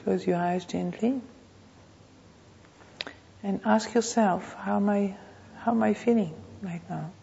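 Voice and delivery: measured meditation voice with long pauses; guided meditation. Real, not acted. Teacher leading a class to notice the body, guided meditation. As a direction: guide them unhurriedly, phrase by phrase.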